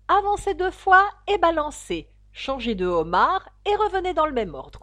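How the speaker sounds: loud, high dance-caller shout; calling dance steps. A narrator's reading. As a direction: call out the figures with force. Griffon crie les figures de danse. (crier les figures de danse)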